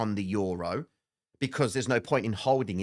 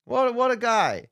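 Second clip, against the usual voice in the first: mock sarcastic; 11 semitones higher, 5 dB louder than usual. Mocking a viewer's chat comment.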